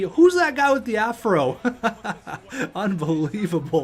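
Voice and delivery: tickled disbelief; amused laughter. Real, not acted. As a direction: laugh at the sight of him. Amused by player's afro.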